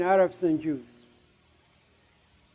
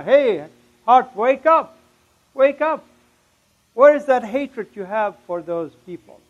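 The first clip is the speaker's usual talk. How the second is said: raised, urgent call; brain crying out; 3 semitones higher, 4 dB louder than usual. Retold or imitated. Brain calling to his changed heart, crying out. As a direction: call out as if rousing a sleeper. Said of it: "my brain was crying out".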